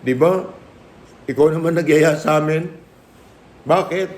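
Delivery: a hint of a tearful eldest child; crying child. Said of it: "sabi niya". (nagmamakaawang anak, medyo mataas ang boses)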